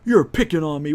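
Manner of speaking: high, loud imitating whine-yell; mimicking an angry player yelling at the DM; mock yell. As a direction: act out his outraged complaint, hammed-up. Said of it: "He starts shouting and yelling".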